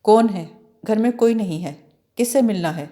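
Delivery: lightly faked heavy man's voice; a girl playing a gruff man at the door; put-on heavy voice. Saadi dressed as a man, a hint of a heavy voice. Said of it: "اس نے بھاری آواز بنا کے پوچھا".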